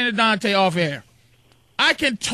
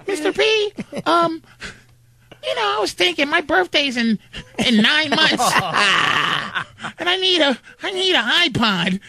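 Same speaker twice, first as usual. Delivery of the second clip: put-on higher sweet girlish voice; man doing a woman's voice; 4 semitones higher than usual. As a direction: ask like a wheedling stepdaughter. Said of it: "that's my girl's voice".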